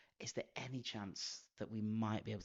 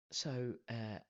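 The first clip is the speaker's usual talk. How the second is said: retold Queen's English. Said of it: "I put on the finest Queen's English".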